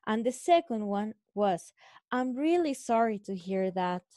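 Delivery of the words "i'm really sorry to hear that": 1 sympathetic imitation. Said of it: "You could feel the feeling".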